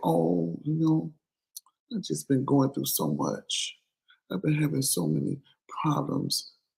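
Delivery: very quiet, soft, barely-there little voice. Mimicking people who use a soft voice to disarm you, mocking a little soft voice. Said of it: "they come with the little soft voice".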